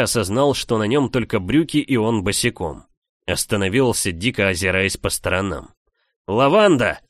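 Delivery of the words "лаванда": full-lunged shout of a name. A narrator's reading. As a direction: yell at the top of his lungs. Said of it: "прокричал во всю мощь своих лёгких".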